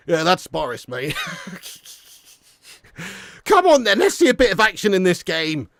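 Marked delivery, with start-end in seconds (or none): 3.4-5.7 high, impatient fan's call; urging shout. Real, not acted. Fan demanding some action in the game, urging shout. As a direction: shout the players on. Urges on the match he watches.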